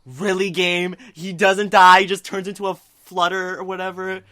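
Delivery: loud, put-out disbelief; mock indignation. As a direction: scold the game in playful exasperation. Retold complaint to the game.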